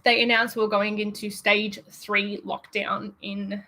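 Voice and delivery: nervous, shaky voice; a nervous tremble in the voice. Real, not acted. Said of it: "Sorry, my voice is, like, a little shaky".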